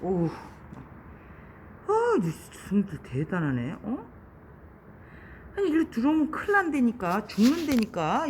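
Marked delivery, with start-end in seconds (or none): 5.6-8.3 fast, high, loud rush of warning; panicked warning before the hospital door; urgent alarmed warning. Real, not acted. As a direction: hurry to stop it going inside. Beetle heads into hospital.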